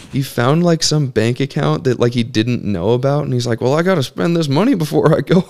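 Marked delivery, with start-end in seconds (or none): 3.6-5.4 put-on higher, fast old-timer voice; imitating great uncle. Uncle who found a forgotten bank account, higher fast voice. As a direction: rush it out gleefully. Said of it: "I just do all their voices".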